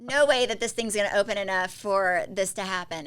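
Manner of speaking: loud, desperate no way; panicked protest. Retold or imitated. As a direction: protest loudly mid labour, sure it can't happen. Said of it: "I was like".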